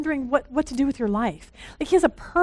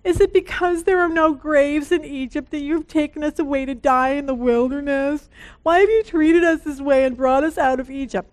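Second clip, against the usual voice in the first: complaining Israelites. Retold or imitated. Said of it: "listen to these people and see if it sounds like us".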